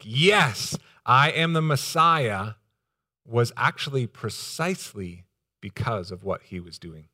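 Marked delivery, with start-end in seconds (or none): 0.0-2.5 slow, louder, higher declaration; loud, emphatic. Acted. Preacher voicing the expected answer to John, loud and emphatic. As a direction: proclaim it with weight on each word. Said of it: "a loud, emphatic".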